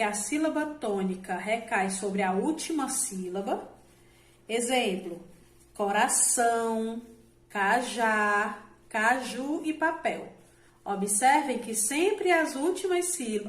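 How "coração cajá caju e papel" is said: "coração, cajá, caju e papel", each leaning on its final syllable; stress on last syllables. Shown as a demonstration. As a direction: draw out the endings of "coração" and "cajá" as examples. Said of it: "a última sílaba da palavra". (tonicidade na última sílaba)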